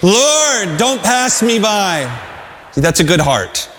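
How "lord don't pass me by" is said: leading the congregation. Shown as a demonstration. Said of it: "Let's say that together".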